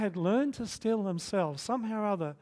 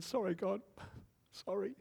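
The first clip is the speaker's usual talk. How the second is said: sheepish apology; 3 semitones higher, 7 dB quieter than usual. Retold or imitated. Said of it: "knelt down beside the bed and said".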